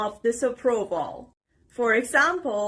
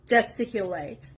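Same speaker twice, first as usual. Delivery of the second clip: "gesticulate" stressed on STIC, from the S; stress on second syllable; 3 semitones lower than usual. Shown as a demonstration. Teacher showing learners where stress falls, second syllable stressed. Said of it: "The stress is on the letter S".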